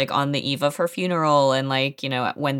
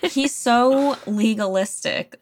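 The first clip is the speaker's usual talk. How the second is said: amused drawl; 7 semitones higher, much slower than usual. Real, not acted. Amused complaint about character.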